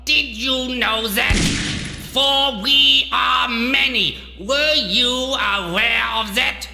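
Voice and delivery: high-pitched, declamatory fury; grandiose angry rant. Acted. Doctor belittling the man who pitied him, grandiose fury. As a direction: thunder like a mad prophet. Villain rants at his enemy.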